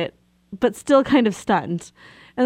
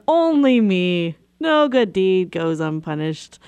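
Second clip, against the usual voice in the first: rueful resignation; slower than usual. Retold or imitated. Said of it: "I said it in that tone of voice".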